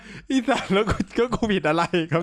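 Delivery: giggling indignant question; laughing exasperation. Retold or imitated. Friend laughs retelling his own annoyed reply. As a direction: laugh through the complaint.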